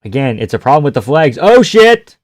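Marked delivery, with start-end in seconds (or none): 1.4-2.2 sudden high, loud "oh shit"; jolted by a big hit; real shock at the screen; surprised. Real, not acted. Reacting to a big shot.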